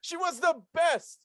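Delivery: lifted, slow and beaming; fond high-pitched gushing; excited high praise. Real, not acted. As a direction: gush about her, drawn out. Laughing fond praise of mom.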